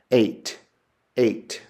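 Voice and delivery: "eight" with a long ay vowel; long e example. Shown as a demonstration. Teacher sounding out eight as the eta vowel. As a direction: stress the ay in "eight". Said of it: "like...the English word eight".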